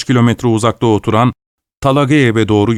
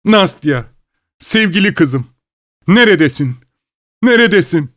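high desperate calling; 8 semitones higher than usual. Acted. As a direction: call for the lost daughter. Father calls for daughter.

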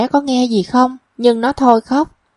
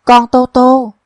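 blurted out; 4 dB louder, slower than usual. A narrator's reading. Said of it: "Nam Hương buột miệng".

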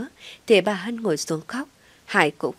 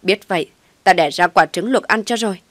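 loud exasperated rant; furious scolding mother; 6 dB louder than usual. Acted. Mother scolding her son while hitting him, furious loud rant. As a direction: yell it at your foolish son.

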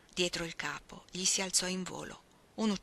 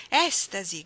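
ecstatic cry; 6 dB louder, slower than usual. Acted. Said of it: "gridò".

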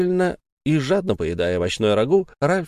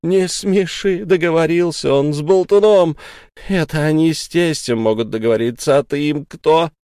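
scornful anger; 6 semitones higher, 4 dB louder than usual. Acted. Sara mocks husband's deal.

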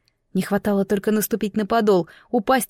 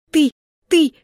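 outraged stammer; 7 semitones higher, 6 dB louder than usual. Acted. Heroine stunned and outraged.

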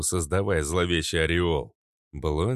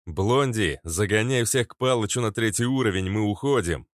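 shouted; 3 semitones higher than usual. Acted. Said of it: "выкрикнул я".

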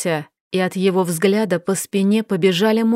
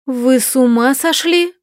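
breathless outburst; 4 semitones higher than usual. Acted. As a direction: blurt it out, unable to hold back. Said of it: "выдохнула я". (ошеломлённый выдох)

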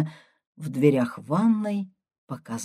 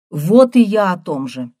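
louder, livelier agreement; perked up; 3 semitones higher, 10 dB louder than usual. A narrator's reading. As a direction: brighten up eagerly. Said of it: "оживился Егор".

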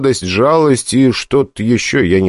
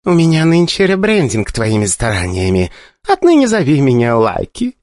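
goddess voice; 6 semitones higher than usual. A narrator's reading.

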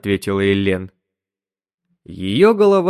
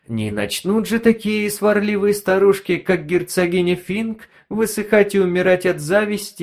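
mock-sweet, higher sneering tone; sly gossiping gadget voice; 9 semitones higher than usual. Konfida mocking the neighbors to Elen, sly and sneering. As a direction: relish the sarcasm, sly and smug.

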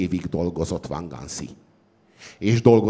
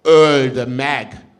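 higher, loud enraged cry; furious crowd shout; 5 semitones higher, 8 dB louder than usual. A narrator's reading. The crowd demanding the sage's death, shouting furiously. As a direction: roar it like a mob in fury. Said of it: "égig csapott a düh s a vád".

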